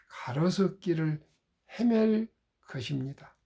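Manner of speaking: measured poem reading with long pauses; poem recitation. Acted. Speaker reciting an autumn prayer poem to the audience, measured recitation. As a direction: recite solemnly, phrase by phrase, letting line endings fall.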